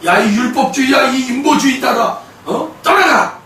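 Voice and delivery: firm rebuke rising on the last word; commanding declaration. Acted. Believer banishing legalists and humanists, commanding declaration. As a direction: order them away with conviction. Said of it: "그렇게 여러분 선포하시길 바랍니다".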